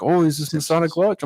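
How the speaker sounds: high, imitated Russian accent; thick Russian accent. Stranger asking the smoking brothers about the lodge, in an imitated high Russian accent. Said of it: "he's got a very thick Russian accent".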